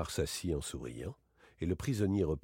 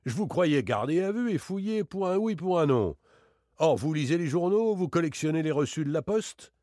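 higher and louder, amazed outcry; astonished inspector, voice raised high; astonished exclamation; 8 semitones higher, 6 dB louder than usual. A narrator's reading. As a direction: exclaim in disbelief at the prisoner. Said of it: "s'écria celui-ci".

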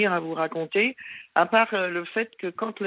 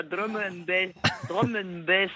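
Marseille accent; slower than usual. Shown as a demonstration. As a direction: drum and bass in a Marseille accent. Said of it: "avec l'accent de Marseille".

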